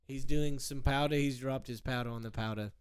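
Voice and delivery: measured, lightly put-on announcer voice; mock sports commentary. Commentator describing the snowboarder leaving the lift, understated mock-serious play-by-play. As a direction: narrate it as understated live commentary.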